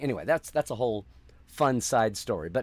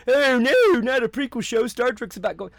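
much higher, louder mock wail of complaining fans; whiny fans mocked; 11 semitones higher, 7 dB louder than usual. Mocking fandom's reaction to the leak, high whiny wail. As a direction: parody the fans moaning about a prequel. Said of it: "I saw fandom go".

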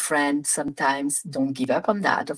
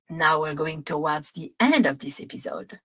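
"episode" said with a French accent, stress on the last syllable; French-accented "episode" at the end; 2 semitones lower, 3 dB quieter than usual. Real, not acted. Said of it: "a lot of French accent there".

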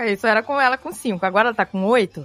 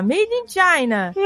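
read label slowly; 6 semitones higher, much slower than usual. Retold or imitated. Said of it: "Aí tava lá".

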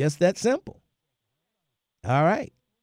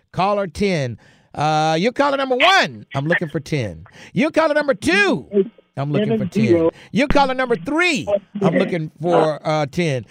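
radio contest promo. Acted. Counting callers in a radio contest.

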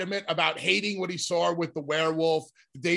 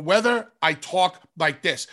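precise, condescending. Shown as a demonstration. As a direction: say "talk like this" deliberately and very clearly, with small gaps. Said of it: "comes across in a condescending manner".

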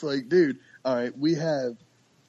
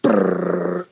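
unvoiced rolling brrr; machine gun chuckle; 6 semitones higher than usual. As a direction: blow out a rapid duck chuckle. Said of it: "it literally sounds like".

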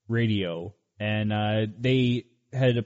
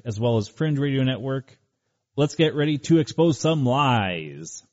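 announcer voice. Acted. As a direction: bellow it like a boxing announcer. Boxing-style show opener.

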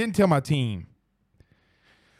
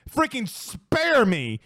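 drawn-out exasperation; 6 semitones higher, much slower than usual. Real, not acted. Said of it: "exasperated at rival's ranking".

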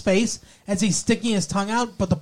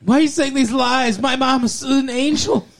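mock indignant; 5 semitones higher than usual. Voicing Donna defending mom.

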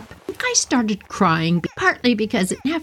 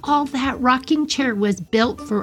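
put-on high, delighted little-girl voice; 4 semitones higher than usual. Four-year-old talks to her cat, high and delighted. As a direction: play yourself at four, thrilled with the game. Child self voiced in story.

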